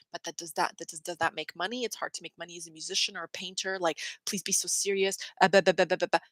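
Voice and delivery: mock doubting parent. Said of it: "you hear your parents go".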